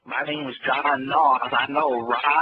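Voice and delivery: slow Southern hick drawl; lightly put-on hick accent. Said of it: "do your best hick accent right now".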